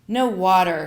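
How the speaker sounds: loud, level, emphatic refusal; lightly voiced mother laying down the law; mother's firm refusal. A narrator's reading. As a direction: put your foot down firmly. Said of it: "she says".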